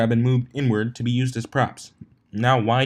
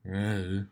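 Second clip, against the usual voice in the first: lazy grunt; 7 dB quieter than usual. A narrator's reading. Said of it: "It ended up sounding like an".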